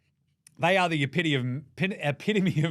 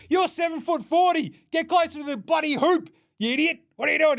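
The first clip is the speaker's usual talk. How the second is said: higher, louder exasperated rant at Wemby; exasperated yell; 9 semitones higher, 3 dB louder than usual. Acted. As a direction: yell at him to get closer to the hoop.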